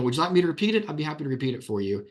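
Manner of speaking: sweetly condescending, fast at the end; mock-helpful to an evasive parent; patronizing. Shown as a demonstration. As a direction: offer help with fake politeness.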